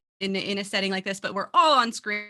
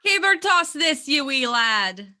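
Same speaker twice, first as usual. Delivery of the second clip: hammed-up Scottish brogue, slow and louder; Scottish accent; 4 semitones higher, 5 dB louder, slower than usual. Shown as a demonstration. Beer name read to cohost in mock Scottish accent. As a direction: roll it out like a proud Highlander. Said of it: "do that in a Scottish accent".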